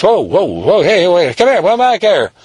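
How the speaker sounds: high calls to stop; calling out. Acted. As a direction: shout after him to come back. Police call after fleeing boy.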